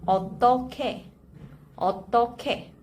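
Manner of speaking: "어떻게" in careful, separated syllables; pronunciation demo. Shown as a demonstration. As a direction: model "어떻게" syllable by syllable for learners. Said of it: "you pronounce it like this".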